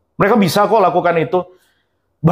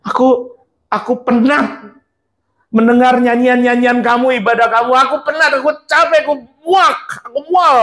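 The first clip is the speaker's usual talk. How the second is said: God speaking, weary; 3 semitones higher than usual. Acted. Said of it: "Tuhan berkata gini".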